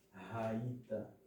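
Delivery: "Raita" with no e before "ta"; falling model "Raita"; correct pronunciation. Shown as a demonstration. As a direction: say "Raita" carefully, first syllable strong. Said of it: "e sim raita".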